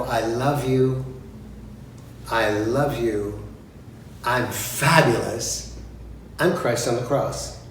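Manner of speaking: slow, spelled-out diva declarations; slow mock diva lines. Shown as a demonstration. Director coaching the singer, slow mock diva lines. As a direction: lay each line out slowly like an inner monologue. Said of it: "You need to go".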